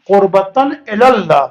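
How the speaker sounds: الی اللہ said "ela-llah", single light L; correct pronunciation. Shown as a demonstration. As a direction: model قربتاً الی اللہ with "ela", not "illa". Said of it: "صحیح pronunciation".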